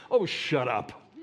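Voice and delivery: lightly voiced, tired "oh, shut up"; exasperated Moses. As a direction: snap back at the whiners as Moses. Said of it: "I wish Moses was recorded that way".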